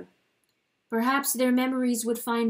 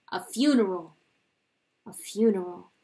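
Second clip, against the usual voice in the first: cold; 3 dB louder than usual. Acted. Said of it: "he answered himself coldly".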